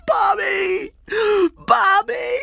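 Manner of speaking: desperate, very high loud cry; screaming. A narrator's reading. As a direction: scream for a missing child into the dark. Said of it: "screamed into the darkness".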